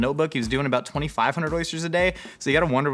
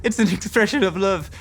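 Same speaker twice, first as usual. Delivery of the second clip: lightly put-on Irish accent. Imitating Sienna Miller's character on cooking, light Irish accent. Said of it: "that's my Irish accent".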